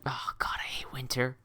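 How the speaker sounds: unvoiced, breathy whisper of dread; whispered groan. Real, not acted. Streamer whispering his hatred of winter to chat. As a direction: whisper it like a shudder at the thought.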